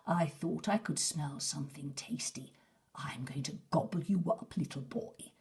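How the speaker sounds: a hint of a low, greedy wolf; lightly voiced hungry wolf. Big Wolf threatening Herb, lightly voiced low and greedy. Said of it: "Big Wolf said in a low, greedy voice".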